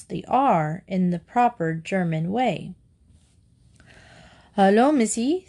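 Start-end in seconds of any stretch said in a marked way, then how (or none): 4.6-5.5 put-on old man's greeting. A narrator's reading. Old Fong greets little girl.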